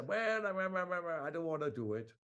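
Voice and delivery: slow, lightly mimicked child refusing; a hint of a sulky child saying no; reluctant child. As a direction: drag it out like a kid who won't do homework. Parent mimics child refusing homework.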